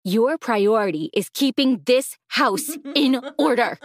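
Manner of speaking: slow, cold stepmother orders; stern stepmother. Acted. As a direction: lay down the law, slowly. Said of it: "she said sternly".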